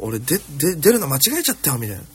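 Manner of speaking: disgruntled grumbling. Retold or imitated. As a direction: imitate a colleague griping in disbelief. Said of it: "不満というかさ".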